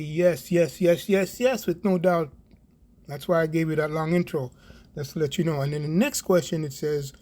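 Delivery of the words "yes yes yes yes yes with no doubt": rapid-fire insistence on each yes; emphatic, repeated affirmation. Real, not acted. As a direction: affirm it with total certainty. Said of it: "And I say emphatically".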